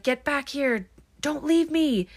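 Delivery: high-pitched imitation of a creepy British man. Film fan imitating the masked man's plea, creepy British voice. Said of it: "like, a really creepy, like, grown man's, like, British voice".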